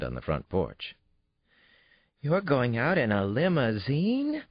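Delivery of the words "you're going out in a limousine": put-on high, slow astonished child's voice; amazed little girl. A narrator's reading. Daughter sees the limousine arrive, astonished. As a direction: gasp it out in wonder.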